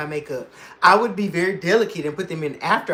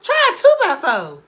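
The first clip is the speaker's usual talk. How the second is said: high, loud laugh-cry; high wailing repeat; 11 semitones higher, 7 dB louder than usual. Real, not acted. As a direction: wail it through laughter.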